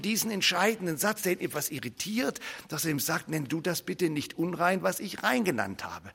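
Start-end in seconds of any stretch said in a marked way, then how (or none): 3.3-6.1 much softer, solemn; God's quiet word. Acted. God correcting Peter about the unclean meal, hushed. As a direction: speak it hushed and weighty.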